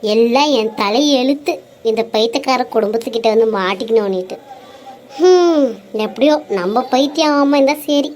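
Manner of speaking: low, muttered complaints; daughter-in-law muttering about her crazy in-laws; grumbling to herself. Acted. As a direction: mutter under your breath, fed up.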